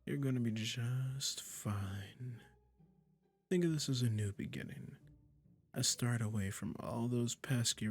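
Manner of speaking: slow, drawn-out coaxing with lingering pauses; lightly hammed-up sweet, condescending captor; doting, possessive magician. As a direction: coo smugly to your new pet kitty. Magician soothing listener turned cat.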